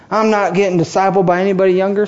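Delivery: put-on quick, lightly drawled Southern accent; a hint of Southern accent mocking older churchgoers. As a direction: toss it off like a stubborn Southern elder. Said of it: "Some of you are Southern all of a sudden".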